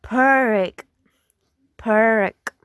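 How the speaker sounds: "perk" for park, central vowel and strong r; Irish park. Shown as a demonstration. Teacher contrasting accents, Irish central r. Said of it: "In Irish is".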